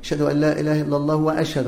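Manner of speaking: quick run from الله straight into "وأشهد" with a wa-; wrongly joined phrases. Shown as a demonstration. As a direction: link الله to وأشهد without stopping. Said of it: "حتى اللي بيصل يقول ماذا؟".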